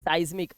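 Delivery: साइज्मिक said "size-mik"; eye sound. Shown as a demonstration. Teacher repeating साइज्मिक for the class, eye sound. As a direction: clear "sigh" opening on साइज्मिक. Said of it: "आई की आवाज आ रही है".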